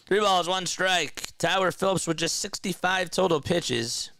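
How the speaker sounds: mock baseball play-by-play call; casual live baseball commentary. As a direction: call the game like a radio announcer.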